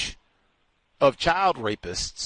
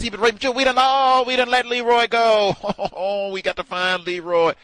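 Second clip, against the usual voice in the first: mock alarm; 8 semitones higher, 4 dB louder than usual. Alarmed realisation, higher louder.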